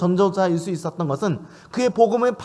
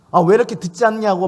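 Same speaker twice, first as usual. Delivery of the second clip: louder, hammed-up scolding; mock scolding; 3 semitones higher, 5 dB louder than usual. Pretend officiant scolding guests who won't listen, mock anger. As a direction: scold the chatty guests in jest. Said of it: "막 호통치면서 막 혼내십니까?".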